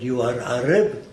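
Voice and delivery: put-on quoting an Arabic speaker's accented question, lightly; imitating Elbaz's Arabic accent. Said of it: "That's the way he spoke".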